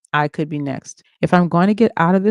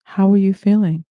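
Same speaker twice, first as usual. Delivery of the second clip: concerned voice; 4 semitones higher, 4 dB louder than usual. Acted. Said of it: "with concern in his voice".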